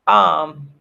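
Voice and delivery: words stretched by a yawn; talking mid-yawn. Real, not acted. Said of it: "I'm sorry for yawning".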